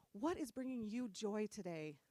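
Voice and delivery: soft, earnest motherly question; imitating sweet mom. Daughter imitates mom asking after joy, gently sweet. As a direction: ask it gently, as a doting mom. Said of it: "That's how she talks".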